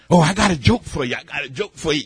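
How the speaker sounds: ordinary talk, nothing marked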